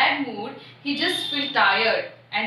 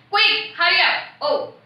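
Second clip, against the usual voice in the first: urgent harsh call; 5 semitones higher than usual. Acted. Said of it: "Someone is telling like this".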